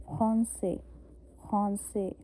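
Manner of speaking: "खांसे" with a throaty R and a nasal an; French "खांसे" with a rasped R; French français. Shown as a demonstration. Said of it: "back of the throat".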